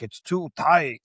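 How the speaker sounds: lightly voiced cramped Lugosi; complaining from coffin. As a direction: fuss like a cramped old man. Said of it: "he's like".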